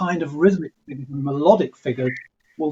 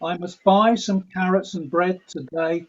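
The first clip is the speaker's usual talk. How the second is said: da-DUM da-DUM, even iambic beat; lilting iambic pentameter; iambic rhythm. Shown as a demonstration. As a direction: speak in steady iambs. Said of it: "We speak like this".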